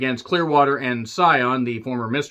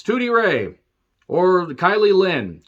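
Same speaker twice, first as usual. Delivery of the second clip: savoring the name; 5 semitones higher, 4 dB louder, slower than usual. Shown as a demonstration. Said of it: "Kylie Lynn sounds like an eighties pop star".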